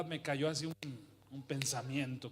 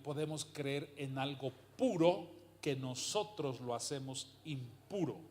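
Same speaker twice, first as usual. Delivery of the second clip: slow, measured first take of the question; unhurried, weighing every word; slow and deliberate. Shown as a demonstration. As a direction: spell out "podemos creer en algo puro" slowly so it lands. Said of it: "Lo voy a decir otra vez".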